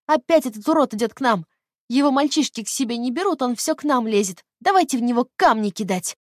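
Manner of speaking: put-on high, loud squeaky little girl; shrill childish yell of a schoolgirl. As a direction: squeak it out like a spiteful ten-year-old. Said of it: "пропищала Лина странным голосом, похожим на детский".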